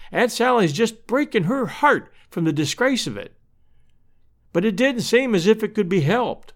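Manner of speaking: lightly voiced Missus Stetson, earnest and troubled; distressed neighbour woman. Missus Stetson tells sad news.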